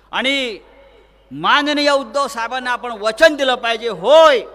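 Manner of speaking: loud, rising rally cry; rally shout. Real, not acted. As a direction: whip the crowd up. Rally orator building to a pledge.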